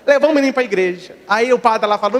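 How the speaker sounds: ordinary talk, nothing marked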